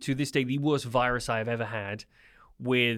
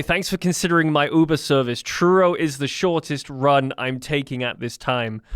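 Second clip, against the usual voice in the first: a put-on American accent, louder; 5 dB louder than usual. Caller phones his dad back in a put-on American accent. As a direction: play it as an American Uber driver. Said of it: "with your American accent".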